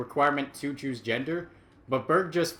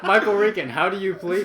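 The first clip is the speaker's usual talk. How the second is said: mock judge; 4 semitones higher, 5 dB louder than usual.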